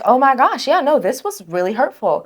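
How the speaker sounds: high and fading to a hush; vulnerable admission. Pretend. Admitting hurt to a colleague, high and softening. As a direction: let it drop soft and small by the end.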